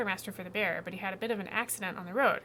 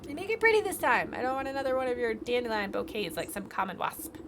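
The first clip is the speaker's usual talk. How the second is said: much higher, louder imperious shriek; shrill queen bee; 4 semitones higher, 7 dB louder than usual. Acted. Queen bee demands dinner from the beekeeper, shrill and imperious. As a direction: shriek orders at your servant. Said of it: "A shrill voice pierces the meadow".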